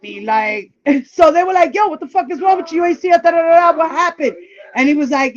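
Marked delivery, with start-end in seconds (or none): 1.7-4.4 higher-pitched imitation of outraged friends; alarmed demand. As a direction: act out friends demanding to know what happened. Friends' alarmed questions acted out.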